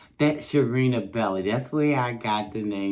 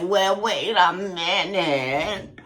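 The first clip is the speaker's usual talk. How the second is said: taken aback; 7 semitones higher, 4 dB louder, slower than usual. Retold or imitated. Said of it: "And I'm like".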